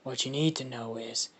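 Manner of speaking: soft, partly whispered monster voice; lightly voiced creature. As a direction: quietly lay it out for the kid. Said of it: "he pops up and he says".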